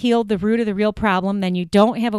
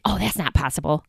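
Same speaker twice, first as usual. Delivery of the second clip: skeptical; 5 semitones lower, 5 dB quieter, faster than usual. Retold or imitated. Listener's doubting inner thought.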